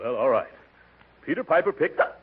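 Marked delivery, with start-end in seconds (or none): 1.2-2.2 running out of air. Acted. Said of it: "Say, Peter Piper ... without taking a breath".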